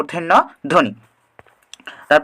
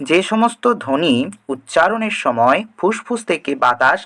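slower, spelling out the definition; slow repeat; slower than usual. Shown as a demonstration. Teacher repeating the definition for students, slowly. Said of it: "তাহলে কি বলছে?".

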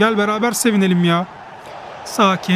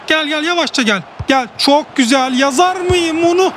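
rising excitement; 5 semitones higher than usual. Real, not acted. Chance builds to a miss.

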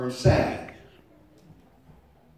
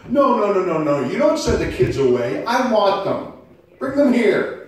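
put-on Jesus calling the kids; 6 semitones higher, 8 dB louder than usual. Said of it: "but he's saying".

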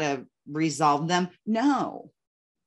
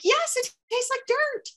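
much higher, giggly whine; mock whine. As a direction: whine it like a fed-up kid, laughing. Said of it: "I'm like".

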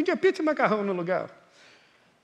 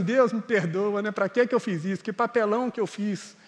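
a hint of remorse, softer and lower; mock remorse; 5 semitones lower, 4 dB quieter than usual. Driver regretting his outburst, mock remorseful and low. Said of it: "Você fala assim".

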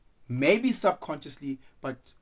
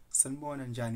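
soft, smiling greeting; lightly imitated polite greeting; respectful with a smile; 10 dB quieter, faster than usual. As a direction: greet him kindly and humbly. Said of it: "with a smile".

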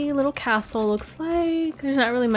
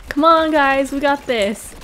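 cheering on; 3 semitones higher, 4 dB louder than usual. Real, not acted. Cheering team on against giant.

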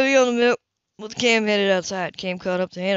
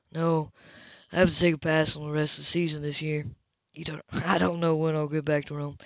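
relaxed man on the phone, voiced a touch lower; easy, charming phone chat in a lowered voice; Cam voiced lower; 4 semitones lower, 4 dB quieter than usual.

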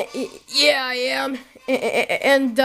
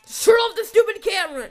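angry scolding; 6 semitones higher than usual. Acted. Dad scolding son on camera.

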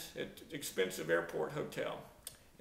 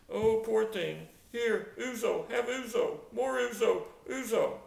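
Mister Constantino; 5 semitones higher than usual. Retold or imitated. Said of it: "The hotel owner, Mister Constantino".

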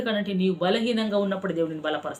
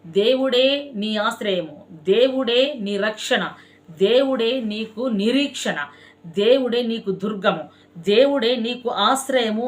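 fervent refrain; 2 semitones higher, 3 dB louder, slower than usual. Acted. Preacher calling out refrain.

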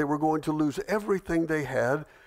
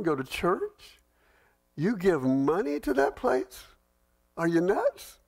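higher, incredulous mock of a churchgoer; mocking ridicule; 4 semitones higher than usual. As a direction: sneer like a scoffer at someone's faith. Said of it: "That's ridicule".

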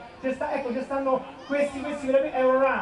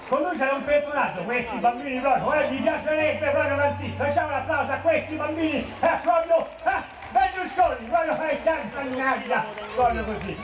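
a touch of an effusive celebrity impression; impersonated personality. Comedian imitating a personality asking applause for children, lightly impersonated. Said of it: "vorrei un attimo fare un'imitazione".

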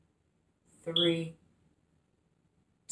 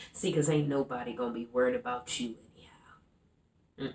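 soft, low Bernice; 8 semitones lower, 10 dB quieter, faster than usual. Acted. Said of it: "playing the character of Bernice".

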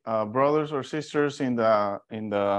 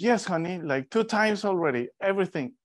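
retold exasperated reply, pitched higher; exasperated husband; 6 semitones higher than usual. Husband telling his wife he already looked, exasperated. Snapping back at wife in story.

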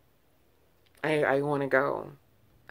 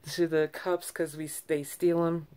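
sympathetic worker; 4 semitones higher than usual. Retold or imitated. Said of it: "And she was like".

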